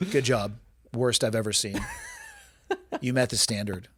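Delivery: flat, unchanging instructor tone; deadpan, never change tone; monotone voice. Retold or imitated. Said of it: "Never change tone".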